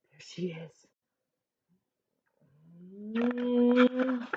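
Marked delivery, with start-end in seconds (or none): none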